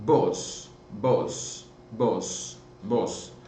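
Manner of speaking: vos modelled for repeating. Shown as a demonstration. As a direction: drill vos with the class. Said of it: "Repetiram aí pra mim?".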